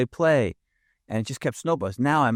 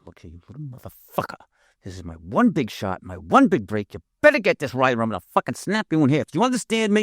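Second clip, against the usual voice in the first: put-on scare the kid into a real reaction; menacing threat; 3 semitones higher than usual. Actor on set threatens a kid, menace building to a shout.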